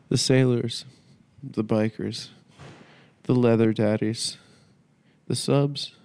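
mournful theatrical speech, lightly played; grand tragic wailing. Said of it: "I'm gonna do a dramatic monologue".

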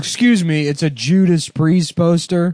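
hammed-up offended metalhead, slow; mock indignant. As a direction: protest like a wounded fan. Mock offended metalhead defending poster.

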